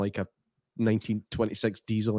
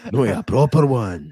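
laughing tease; 7 dB louder than usual. Retold or imitated. Mocking vegan coworker.

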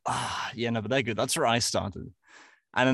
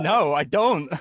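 exasperated mock reply; 4 semitones higher, 6 dB louder, slower than usual. Acted baffled reply to the Scot.

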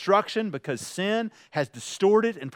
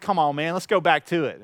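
lower-pitched, casual mock pleading; mock protest; 4 semitones lower than usual. Driver challenges officer to go back, mildly protesting.

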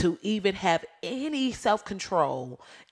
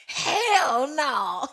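laughing refusal; 8 semitones higher than usual. Real, not acted.

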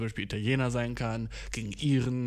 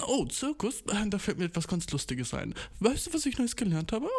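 higher, prissy nerd pushing up his glasses; nerdy know-it-all; 7 semitones higher than usual. Retold or imitated. Telling friends a circus fact, high nerdy know-it-all voice. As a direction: play the smug nerd with a fact. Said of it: "lifte ich meine imaginäre Brille".

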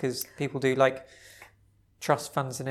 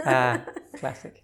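put-on American accent; 3 semitones lower, 4 dB louder, slower than usual. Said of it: "attempt at an American accent".

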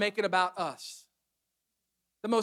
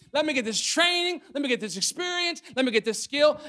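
mock eager excuses; 5 semitones higher than usual. Mimicking excuse-makers piling up demands.

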